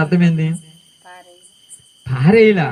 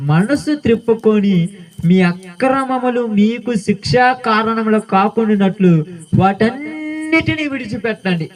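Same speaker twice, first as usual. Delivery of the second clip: slow, measured reading of the verse; solemn Bible recitation from the pulpit; scripture reading; 2 semitones higher, slower than usual. Acted. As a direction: read the verse slowly and weightily, like a preacher. Reads Ezekiel aloud.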